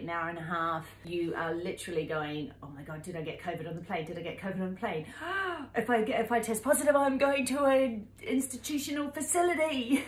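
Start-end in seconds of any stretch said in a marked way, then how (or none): 2.6-10.0 panicky inner voice. Retold or imitated. Panicking over a covid test.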